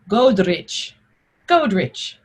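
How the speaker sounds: Godric said as GOAD-rich; Old English pronunciation. Shown as a demonstration. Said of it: "the G O D is goad".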